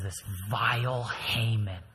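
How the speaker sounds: cold accusation. Acted. Esther accuses Haman slowly.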